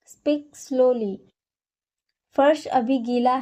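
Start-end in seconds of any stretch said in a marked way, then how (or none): 0.1-1.2 each word drawn out slowly; slow, careful repeat. Shown as a demonstration. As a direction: say it slowly, like a teacher modelling.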